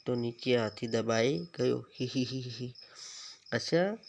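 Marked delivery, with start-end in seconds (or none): 2.0-2.7 giggle. Shown as a demonstration. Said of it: "કૌંસમાં આપેલા શબ્દો કઈ રીતે હસો છો એ વાંચવાનો છે".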